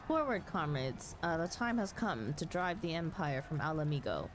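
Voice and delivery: lightly voiced rallying leader, firm and steady; rally the troops for liberation; rousing war speech. Streamer voicing a rebel leader rallying comrades, lightly rousing. Voices game characters aloud.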